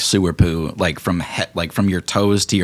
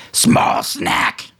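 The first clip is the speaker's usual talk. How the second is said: hissed taunt; 4 dB louder than usual. Acted. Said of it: "he looks at Snack and says".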